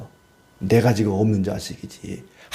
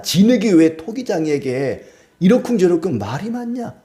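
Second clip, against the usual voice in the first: scolding God; 6 semitones higher than usual. Acted. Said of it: "하나님께서 이제 말씀하시는 겁니다".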